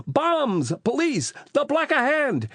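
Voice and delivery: put-on high panicked Italian-accented cries; yelling. A narrator's reading. Rocco dancing in the street in panic, high yelling. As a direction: call out high in alarm.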